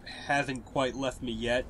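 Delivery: stuffy nose from a cold; blocked nose. Real, not acted. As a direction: talk through a stuffy nose. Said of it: "I apologize if I still sound stuffy".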